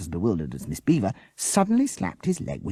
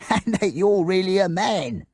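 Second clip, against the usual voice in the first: spluttering with laughter; 13 semitones higher, 5 dB louder than usual. A narrator's reading. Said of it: "he spluttered".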